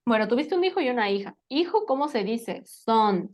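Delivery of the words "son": son said as "sohn", as written; pronunciation demo. Shown as a demonstration. Teacher answering how to say hijo, son said distinctly. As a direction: give son clearly on its own. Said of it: "se pronuncia exactamente igual".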